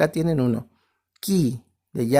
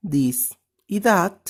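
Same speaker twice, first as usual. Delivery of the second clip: slow, deliberate; slower than usual. Shown as a demonstration. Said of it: "teacher repeating demonstratives".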